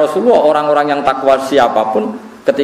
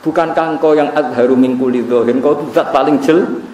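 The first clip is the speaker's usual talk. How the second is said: tearful prayer; 4 semitones higher than usual. Retold or imitated.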